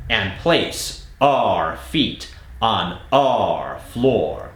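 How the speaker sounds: slow, deliberate, each R leaned on; slow R drill. Shown as a demonstration. Accent coach reading the long drill sentence, slow. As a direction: model it word by word, slowly. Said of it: "Here's the next sentence, slightly longer".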